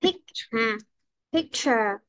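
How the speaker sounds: picture broken after a stressed first syllable; picture, strong start and falling second syllable. Shown as a demonstration. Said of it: "Nhấn âm một đúng không".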